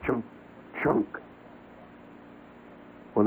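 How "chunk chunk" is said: wood-chop noise. Retold or imitated. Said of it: "chopping wood".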